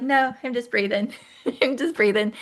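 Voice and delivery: laughing through a light reply; half-laughing, brushing it off. Retold or imitated. Laughing as she tells her husband she is only breathing. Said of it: "I'm like".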